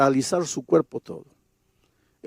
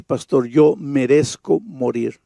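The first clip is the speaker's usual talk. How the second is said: tearful; slower than usual. Retold or imitated. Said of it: "comenzó a llorar y me dice".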